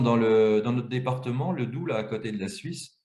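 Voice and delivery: ordinary talk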